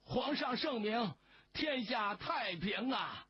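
a villager hamming up a loyal cheer; pompous shout. A narrator's reading. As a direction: bellow it with exaggerated reverence. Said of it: "煞有介事地大喊".

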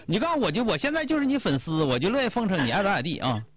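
开头调门抬高，装成粉丝一样捧着说; 演示怎么嘴甜地哄人，句尾落下来; 示范奉承. Shown as a demonstration. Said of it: "他说我奉承他". (东北话，半开玩笑地拍马屁)

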